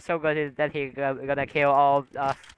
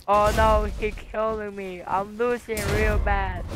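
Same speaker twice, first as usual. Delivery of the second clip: mock panic; 5 semitones higher than usual. Losing a fight.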